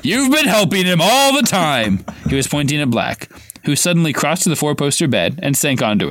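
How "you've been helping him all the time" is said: higher, slower accusing yell; Harry yelling. A narrator's reading. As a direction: throw the accusation at him. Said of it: "Harry yelled".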